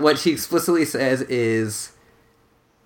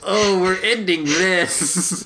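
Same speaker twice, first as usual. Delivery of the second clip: laughing goodbye; 7 semitones higher than usual. Real, not acted. Laughing, jokingly ends the podcast.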